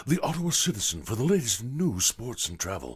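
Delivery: light imitation of a radio ad read; ad announcer. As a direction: read it like the old commercial. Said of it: "he used to go".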